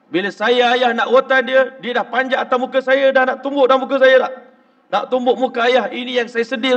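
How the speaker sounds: a distressed father pouring out his grief; upset father. Retold or imitated. Father telling the preacher about his daughter, loudly distraught.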